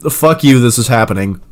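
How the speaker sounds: mock rude summary. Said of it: "Kindly and eloquently saying what I just said".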